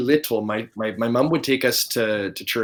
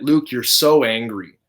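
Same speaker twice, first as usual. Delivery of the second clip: mock accuser; slower than usual. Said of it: "people will oftentimes say".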